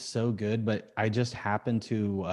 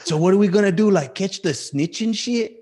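mock British accent; 9 semitones higher, 7 dB louder than usual. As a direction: put on a hammed-up British accent. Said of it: "he still has the British accent".

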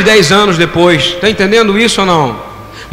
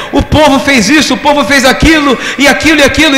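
mocking Elijah; 7 semitones higher than usual. Imitating Elijah's excuses.

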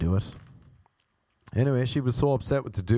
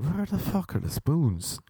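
higher-pitched, baffled demand; mock-indignant, pitched up; exasperated question; 5 semitones higher than usual. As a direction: act out puzzled exasperation. Baffled hunt for missing spoons.

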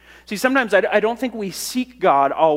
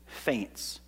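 fading whisper; 7 semitones lower, 14 dB quieter than usual. Acted. Psalmist's spirit fainting, read aloud.

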